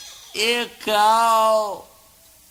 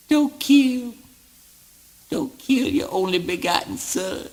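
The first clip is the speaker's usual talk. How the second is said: pleading; 4 semitones higher than usual. Acted. Pleading father not to kill.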